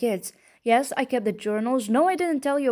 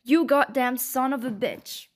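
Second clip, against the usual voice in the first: rising anger; 4 semitones higher than usual. Acted. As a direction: hurl every yes back at him, higher. Wife confronts husband about his abuse.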